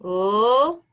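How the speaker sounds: "L-A" as a long lll, then ay; sounded out. Shown as a demonstration. Teacher dictating as pupils write, "L-A" slowly sounded out. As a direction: draw out the two sounds of "L-A" separately. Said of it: "Let's write it".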